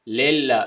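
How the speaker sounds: للہ begun as "lel" with an e vowel; majhool zer. Shown as a demonstration. Teacher showing another wrong reading, majhool zer. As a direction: open the first vowel of للہ to "le". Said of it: "لام زیر لے نہیں ہوتا".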